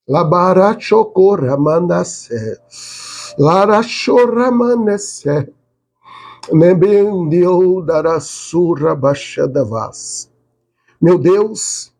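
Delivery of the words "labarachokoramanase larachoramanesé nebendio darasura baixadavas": speaking in tongues. Real, not acted. Speaking in tongues mid-prayer.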